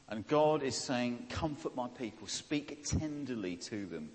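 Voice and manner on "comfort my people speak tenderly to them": tender voice. Retold or imitated. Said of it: "God is speaking to them in a tender voice".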